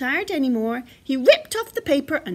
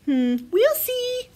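slow, higher, noncommittal mum voice; Mother Bear; 11 semitones higher, 4 dB louder, slower than usual. A narrator's reading. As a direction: draw it out, putting the child off. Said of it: "said Mother Bear".

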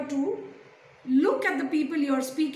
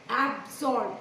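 Absorb split into two measured beats; syllable by syllable; 2 semitones lower than usual. Shown as a demonstration. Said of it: "two syllables".

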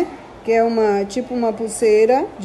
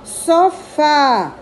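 Sofá with fá lifted and leaned on; stress on fá; 3 semitones higher than usual. Shown as a demonstration. Teacher showing the class the stressed fá in Sofá. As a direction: push the final fá of Sofá. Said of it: "o Fá é a sílaba tônica mais forte".

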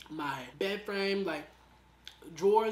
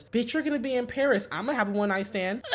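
mock brash friend; 4 semitones higher, 6 dB louder than usual. Mimicking friend's ignorant justification.

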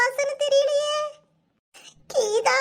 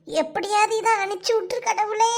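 tearful prayer. Acted. Kidnapped woman praying to God.

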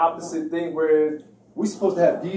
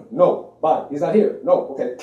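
louder, curt brush-off; a touch of a firm no-nonsense woman; 5 dB louder than usual. Retold or imitated. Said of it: "she's firm".

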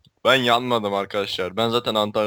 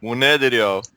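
lightly hammed Turkish dialect accent; put-on dialect accent; 4 dB louder than usual. Mock-scolding his building partner in a light dialect accent. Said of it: "çok güzel şive yapıyorsun".

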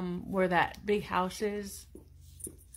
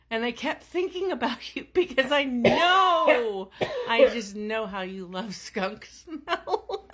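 laughing; 2 semitones higher, 3 dB louder than usual. Real, not acted. Teasing partner about skunk smell.

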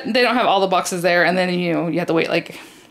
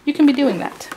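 put-on Craig's accent; 7 semitones higher than usual. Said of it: "he just speaks that way".

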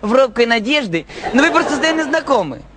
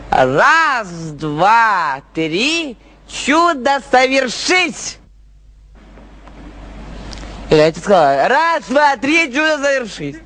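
fairy godmother; 2 semitones lower, slower than usual. Pretend. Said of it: "просто взмахну волшебной палочкой".

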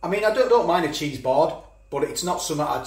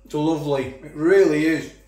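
talking with a full mouth; words round a bite of pork pie. Real, not acted. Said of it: "Apologise for talking with my mouth full".

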